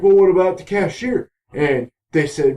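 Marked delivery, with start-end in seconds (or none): 0.0-1.3 retold question. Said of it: "And he's like".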